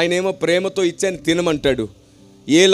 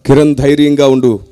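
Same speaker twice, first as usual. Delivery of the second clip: lower, louder, slowed divine voice; voice of God; 6 semitones lower, 9 dB louder than usual. Retold or imitated. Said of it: "పరిశుద్ధాత్మ దేవుని స్వరం".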